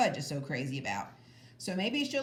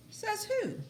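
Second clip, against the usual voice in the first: put-on much higher, sassy girl voice; sassy retort. A narrator's reading. Sheila challenging Peter over the rocks, high and sassy. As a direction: toss it back like a bratty girl. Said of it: "she says".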